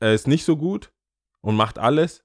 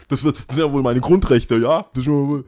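laughing mock protest; 3 semitones higher, 5 dB louder than usual. Mocking the craftsman.

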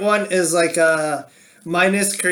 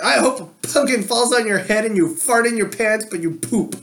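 lightly voiced mad kid, higher at first; 5 semitones higher than usual. Imitating an angry kid wishing harm, mild childish outburst. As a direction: start high like a kid cursing someone, then settle. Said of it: "you're a kid and you're mad".

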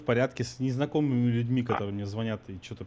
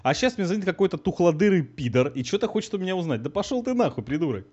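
higher and angry cursing; 4 semitones higher than usual. Real, not acted. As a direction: tell him off with fury. Callee swears at collector.

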